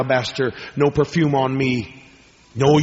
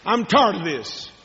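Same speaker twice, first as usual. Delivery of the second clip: mock weary complaint; 6 semitones higher, slower than usual. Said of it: "You'll say".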